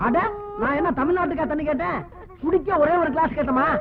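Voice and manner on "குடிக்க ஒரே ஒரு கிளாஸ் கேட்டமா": "ஒரே ஒரு கிளாஸ்" as a tearful, whining plea. Acted. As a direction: beg with a catch of tears in the voice. Asks again, hurt at refusal. (அழுகையுடன் கெஞ்சல்)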